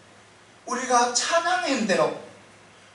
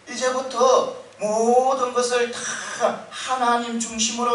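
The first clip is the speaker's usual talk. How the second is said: mock desperate yell. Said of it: "이렇게 고함을 치는 거예요".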